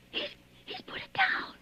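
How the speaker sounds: high, whispered sob of fear; sobbing whisper. Acted. Woman hearing the intruder hang up, sobbing whisper. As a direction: gasp it through tears.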